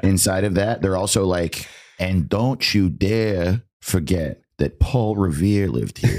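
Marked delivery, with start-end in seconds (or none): 2.0-6.2 slow, proud Boston townie; Boston accent. Pretend. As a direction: lay the Boston accent on thick. Boston voiced as a person.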